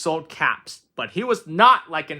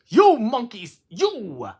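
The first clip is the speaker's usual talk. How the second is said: high, loud scolding cry; peddler scolding monkeys; 6 semitones higher, 6 dB louder, much slower than usual. A narrator's reading. Peddler scolds the monkeys shaking a finger, scolding. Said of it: "he spoke to them".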